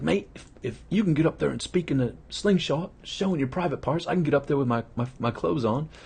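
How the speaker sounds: an Australian friend pumping himself up; Australian accent. Retold or imitated. Glenn admits his fear of stages, in a mock Australian accent. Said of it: "He's from Australia".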